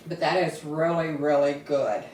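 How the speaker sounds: chewing while praising the dish; mouth full. Real, not acted. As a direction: speak around a hot bite. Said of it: "talking with my mouth full".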